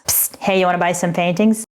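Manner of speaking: hushed shady dealer pitch; secretive raspy sales murmur. Pretend. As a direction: sell it like a back-alley dealer. Mock shady art dealer pitch.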